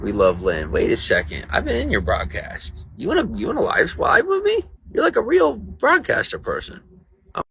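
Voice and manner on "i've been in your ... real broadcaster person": starstruck. Real, not acted. Starstruck by a broadcaster guest.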